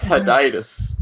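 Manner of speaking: "Heditis" said huh-DIE-tis; "Heditis" as one word, stress on "die"; corrective pronunciation. Shown as a demonstration. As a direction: insist on "Heditis" with a long i. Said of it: "that's the correct way".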